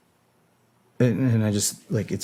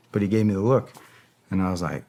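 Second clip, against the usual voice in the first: normal talking voice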